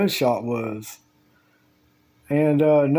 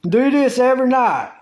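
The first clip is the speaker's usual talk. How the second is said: exterminator instructions; 4 semitones higher than usual. Retold or imitated. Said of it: "and said".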